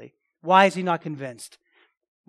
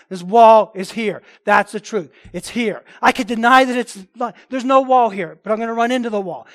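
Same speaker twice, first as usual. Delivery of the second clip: emphatic preaching; 3 semitones higher, 9 dB louder than usual. Real, not acted. Emphatic pulpit illustration.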